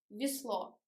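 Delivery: "Весло" as vi-SLO, falling at the end; unstressed Е as И. Shown as a demonstration. Teacher closing the last example, "Весло" with reduced i vowel. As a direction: say the е in "Весло" as short i. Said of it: "but we pronounce и".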